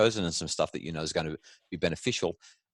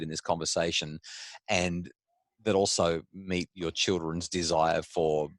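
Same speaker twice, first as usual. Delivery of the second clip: politician voice. Pretend. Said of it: "use my best politician voice here".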